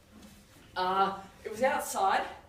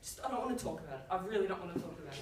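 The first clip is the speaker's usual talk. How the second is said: sulky mumble; 5 semitones lower, 7 dB quieter, much faster than usual. Retold or imitated. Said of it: "he says".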